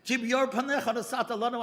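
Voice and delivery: the verse again as a mild tearful plea; tearful repeat. Retold or imitated. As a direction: repeat the verse, half crying. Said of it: "He can't stop crying".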